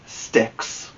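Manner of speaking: breathy whispered reveal; whispered answer. A narrator's reading. Reading to Kiaya, whispering the word she guesses. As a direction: let the child fill in the word in a whisper. Teacher lets child finish word.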